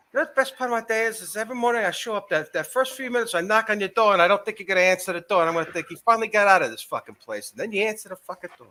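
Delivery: badly faked Boston accent; shitty Boston accent. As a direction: recite it in rough Boston. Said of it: "That's a shitty Boston accent".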